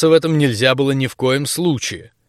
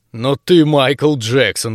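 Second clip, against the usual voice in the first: admiring exclaim; much slower than usual. Acted. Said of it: "восхитился Егор".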